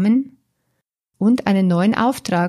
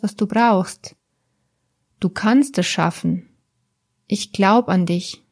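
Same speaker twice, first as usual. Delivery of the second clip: put-on gentle, encouraging words to a frightened child; loving and encouraging. Shown as a demonstration. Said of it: "So liebevoll und aufmunternd".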